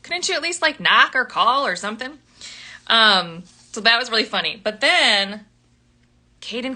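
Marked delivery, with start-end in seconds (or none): 0.0-2.2 put-on high-pitched, outraged girl voice; indignant heroine. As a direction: squeal in high mock indignation. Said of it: "she's like".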